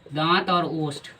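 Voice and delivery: slow, careful teacher dictation of दांत और ओष्ठ. Shown as a demonstration. Teacher dictating दांत और ओष्ठ to students, slow and deliberate. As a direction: spell out दांत और ओष्ठ slowly so students can write. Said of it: "मतलब इसका हिंदी में दंत".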